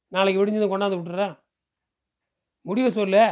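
a touch of exasperated insistence; lightly voiced village man, coaxing. Man urges the stubborn girl to come with him, mildly insistent. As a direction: press her to decide, lightly in character.

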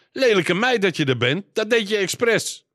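very high-pitched, furious scolding; angry yelling. A narrator's reading. Mother screams at daughter who pressed her sore shoulder, furious. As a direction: lash out in a high, pained outcry. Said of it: "Haar moeder gilde het uit".

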